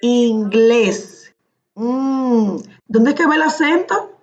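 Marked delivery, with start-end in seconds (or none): 0.0-1.3 Inglés repeated deliberately, drawing out GLÉS; stress demonstration. Shown as a demonstration. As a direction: lean on the last syllable of Inglés. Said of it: "Inglés con el acento en la I". (Inglés marcando la sílaba glés)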